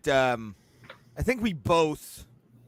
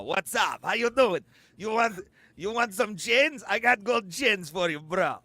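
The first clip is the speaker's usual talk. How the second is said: mock Russian accent; 4 semitones higher than usual. Shown as a demonstration. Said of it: "my Russian is more like this".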